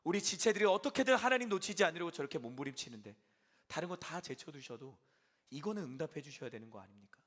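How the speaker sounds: loud, high, pleading complaint to God; protesting to God. Retold or imitated. Pastor voicing his hurt prayer, loud protest. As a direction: press God with a hurt demand. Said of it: "속상한 마음이 하나님께 막 따지듯 묻는 거죠".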